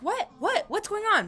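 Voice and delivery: high-pitched panicked questions; imitated panic. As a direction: fire off questions like a mom panicking. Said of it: "she's not good with, like, panic situations".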